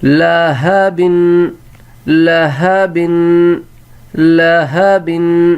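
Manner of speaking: لہبن drawn out, la-ha-bin; slow model reading. Shown as a demonstration. Teacher to pupils, drawn-out model word. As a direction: sound out لہبن slowly. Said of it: "آگے".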